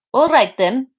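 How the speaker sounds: Russian doctor with a faint note of annoyance; Russian accent, annoyed. Acted. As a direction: slightly put out, Russian accent. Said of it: "a faint note of annoyance".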